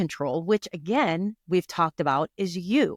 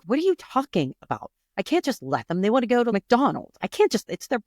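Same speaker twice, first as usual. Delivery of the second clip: protesting mom; 6 semitones higher than usual. Retold or imitated. Retold mother protesting to daughter.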